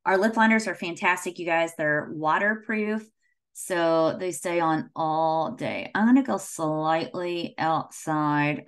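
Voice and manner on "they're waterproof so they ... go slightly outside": lips held still while talking; talking while lining lips, mouth stiff; talking with lips stretched. Real, not acted. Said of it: "I could be a ventriloquist".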